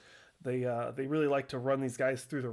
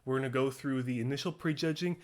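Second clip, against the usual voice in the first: breathless, rushing the words; winded and out of breath; faster than usual. Real, not acted. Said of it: "you can tell I'm out of breath".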